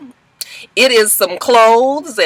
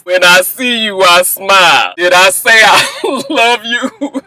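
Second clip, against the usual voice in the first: lower, earnest mock-romantic voice; Lorenzo's love speech; 3 semitones lower than usual. Boyfriend declaring love to British in Paris, mock-earnest and low. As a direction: ham up a sappy proposal. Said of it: "he gotta start with his speech".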